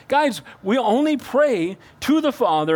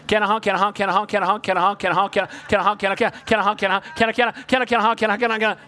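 put-on nagging child; much faster than usual.

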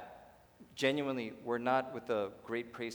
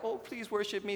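higher, whiny mock plea for worship; mock needy God; 8 semitones higher than usual. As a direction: play God as a needy beggar, teasing. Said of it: "God's like".

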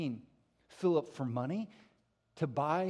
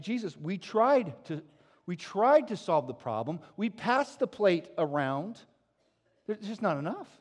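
a hint of flustered disciples, louder; complaining disciples; 4 semitones higher, 8 dB louder than usual. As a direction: play the disciples making excuses. Disciples voiced complaining to Jesus.

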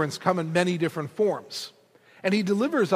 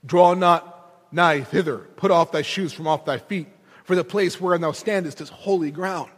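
voice of God; 2 semitones lower than usual. Acted. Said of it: "Moses hears this voice".

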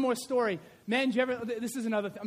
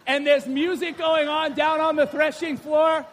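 shout; 5 semitones higher, 9 dB louder than usual. Real, not acted. Preacher shouting over the imagined music.

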